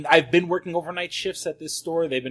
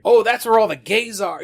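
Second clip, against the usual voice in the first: put-on southern accent; 7 semitones higher, 7 dB louder than usual. Imitating regular customers reacting to the new store, southern accent. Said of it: "like, a southern accent on it".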